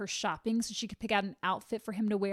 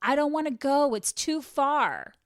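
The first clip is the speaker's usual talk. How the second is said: put-on shrieking, high, loud little girl scream; 5 semitones higher, 7 dB louder than usual. Retelling a daughter's outburst before a circus outing with her father, imitating Nancy screaming. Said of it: "Nancy starts screaming".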